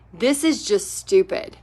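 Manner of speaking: lightly voiced grumpy old man, low; a mild grumble, not a full growl; grumbled complaint. Retelling the grumpy husband at the paint party, low mild grumble. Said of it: "he said".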